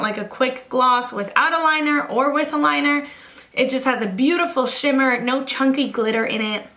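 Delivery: breathless chatter; out of breath. Real, not acted. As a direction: talk a little winded. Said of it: "Why am I out of breath".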